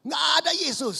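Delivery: high mocking squeal; mock arrogance. (suara tinggi mengejek)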